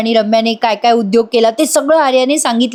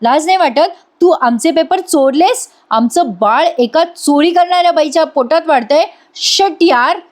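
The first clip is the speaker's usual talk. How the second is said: furious husband; 4 semitones higher than usual. Acted. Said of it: "जीवा खूप चिडतो".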